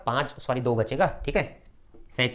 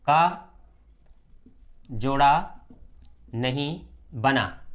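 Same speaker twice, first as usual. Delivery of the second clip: slow emphatic explanation; 3 semitones lower, much slower than usual. Shown as a demonstration. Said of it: "तो आपको कारण बताना है".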